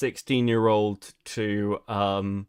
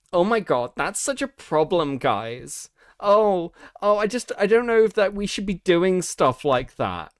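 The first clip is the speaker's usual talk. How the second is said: mocking leftist voice; 5 semitones higher than usual. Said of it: "What I mean is this whole".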